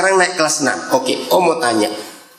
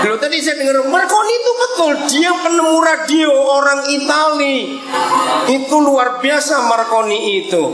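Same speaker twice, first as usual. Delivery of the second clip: delighted surprise; 8 semitones higher than usual. Real, not acted. Surprised a boy knew Marconi.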